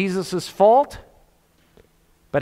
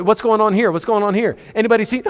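anxious calling out; 6 semitones higher, faster than usual. Retold or imitated. Parents searching the crowd.

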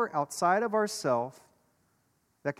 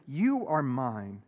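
slow and gentle reassurance; God's loving voice; 3 semitones lower, slower than usual. Acted. God reassuring someone in their failures, slow and gentle. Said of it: "that voice is still there saying".

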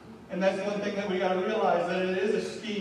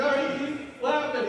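God questioning Eve; 7 semitones higher than usual. Retold or imitated. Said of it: "He's like".

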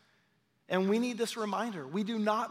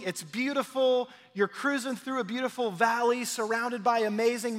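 mock cheerful; 3 semitones higher than usual. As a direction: paint a sunny fake picture with a grin. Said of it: "He doesn't say".

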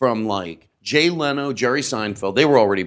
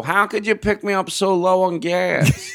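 higher, slow indignant yell; mock accusing shout; 8 semitones higher, slower than usual.

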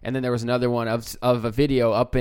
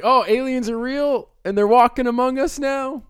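alien voice; 13 semitones higher, 8 dB louder than usual. Pretend. Acting an alien asking out.

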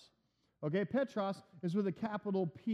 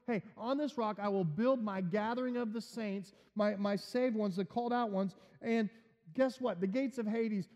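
higher, rising preacher's call, building; preaching at full force; 4 semitones higher than usual. Acted. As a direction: drive it home to the congregation.

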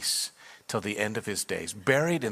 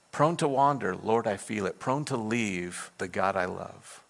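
tender recitation. Retold or imitated. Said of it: "It was the hymn that he had written".

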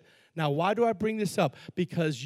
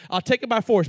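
mock threat; 4 dB louder than usual. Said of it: "Watch this".

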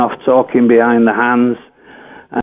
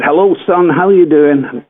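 high-pitched attempt at a Scottish accent; rough put-on Scottish accent; 5 semitones higher than usual. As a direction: imitate a Scotsman's greeting, pitched up. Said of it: "That's supposed to be a Scottish accent".

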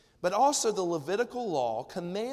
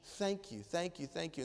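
softer, overwhelmed gratitude at his feet; awed thanks; 6 dB quieter than usual. Retold or imitated. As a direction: whisper your thanks like you can't believe it. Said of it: "It's a posture of worship to say".

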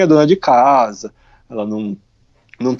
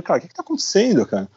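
quick, higher-pitched alarmed question; retold panic; 6 semitones higher, 3 dB quieter, faster than usual. Traveler startled by the soldier, fast alarmed blurt.

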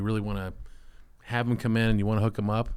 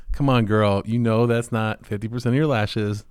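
playful teasing; 6 dB louder, slower than usual. Shown as a demonstration. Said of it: "If you laugh and, like, kinda, like, play it".

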